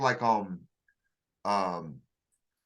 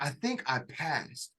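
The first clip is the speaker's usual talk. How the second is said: slow, much softer murmur; dazed relief; 3 semitones lower, 9 dB quieter, slower than usual. Retold or imitated. Exhausted recruit after the range, quietly dazed. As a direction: let it out drained and unsure. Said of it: "I was, I was like".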